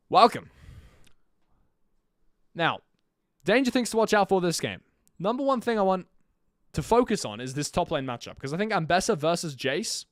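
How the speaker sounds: energetic caster commentary; live play-by-play. Acted. Streamer casting the match for viewers, lively play-by-play. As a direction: call the game like a live caster.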